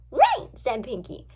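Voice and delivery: very high, loud chirp; high-pitched burst of assent; eager agreement. A narrator's reading. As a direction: agree instantly, all keen. Eager friend agrees to break in.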